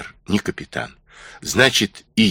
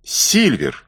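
calling a name across the camp; raised call to someone far off; much slower than usual. Acted. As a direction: call him over from a distance. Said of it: "крикнул он".

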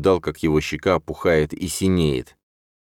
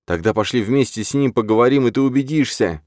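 heavy breathing; 7 semitones higher than usual. A narrator's reading. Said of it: "тяжело дыша заявил я".

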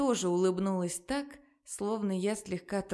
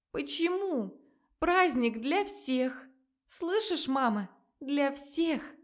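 angry crying; 5 semitones higher, slower than usual. Acted. Daughter pleads tearfully.

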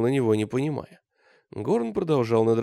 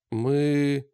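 usual speaking voice

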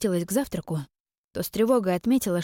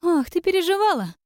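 much higher, louder mock surprise; theatrical sister; 11 semitones higher, 5 dB louder than usual. Sister mocking Iren's worry, high theatrical gasp. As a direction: ham up the sister's fake concern. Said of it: "Она наигранно приложила ладони".

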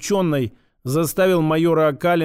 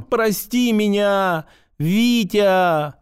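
slow, wailing plea, pitched up; bawling apology; 4 semitones higher, much slower than usual. A narrator's reading. Boy bawling an apology to Vitya. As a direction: sob it out like a crying boy. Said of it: "с рёвом".

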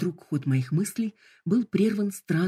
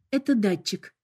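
calm hologram voice; 4 semitones higher than usual. Acted. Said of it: "спокойно пояснила голограмма".

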